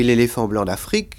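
"l'éléphant blanc d'Afrique" as one group, accent on the last syllable of "d'Afrique"; group-final accent in "d'Afrique"; stress on final FRIQUE. Shown as a demonstration. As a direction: run through "blanc" to land on the "frique" of "d'Afrique". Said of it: "il est passé sur fric".

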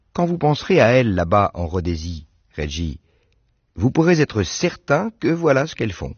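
put-on a bright girl chatting about her doves; Anne's voice. Anne talks about the doves.

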